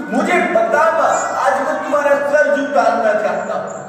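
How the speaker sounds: son's defiant challenge. Acted. Son defiantly challenges his mother.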